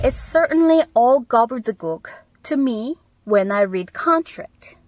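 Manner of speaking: slow, careful teacher read; deliberate classroom dictation; slow model reading. Shown as a demonstration. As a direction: read it out slowly for learners. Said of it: "계약서를 읽을 때".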